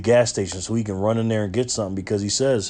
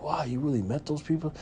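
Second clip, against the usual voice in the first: put-on kid voice; 4 semitones higher, 9 dB quieter than usual. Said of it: "I was like".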